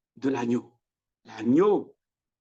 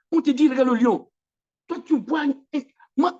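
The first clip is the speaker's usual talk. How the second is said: higher and louder, urging; preaching exhortation; 7 semitones higher, 5 dB louder than usual. Acted. Preacher urging John to look at the lion, loud. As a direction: call it out like a command.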